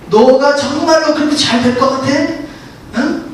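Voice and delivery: 살짝 높은 목소리로 비꼬듯 의심을 심어라; 잘 될 리 없다고 깎아내리는 말투; 사탄의 부정적 속삭임. Acted. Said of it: "이렇게 부정적으로 항상 우리에게 생각을 주는 거". (사탄이 우리에게 부정적으로 말하듯 비꼬는 목소리)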